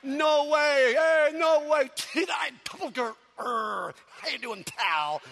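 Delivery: a fan screaming with joy; going berserk. Retold or imitated. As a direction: lose it with fan excitement. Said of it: "She's going berserk".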